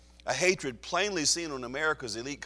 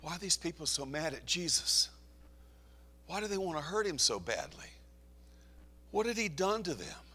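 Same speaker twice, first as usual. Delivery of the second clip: puzzled moviegoers; 5 semitones higher, 5 dB quieter than usual. Retold or imitated. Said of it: "they were asking".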